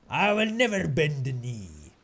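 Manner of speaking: slow, hint of epic hero vow; defiant hero. Gamer echoing the game with a slow, lightly epic vow.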